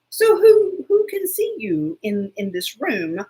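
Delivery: alarmed question. Retold or imitated. Grilling daughter about the app.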